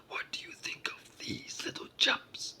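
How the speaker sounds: big storybook giant voice; booming giant. A narrator's reading. Giant shows his catch to his wife, booming. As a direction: boom it out proudly. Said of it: "he said in his booming voice".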